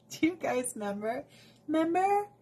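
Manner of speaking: high, rising mock-reminiscing voice; put-on squeaky voice. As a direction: tease it in a high cartoonish voice, tune climbing. Teasing callback in a put-on voice.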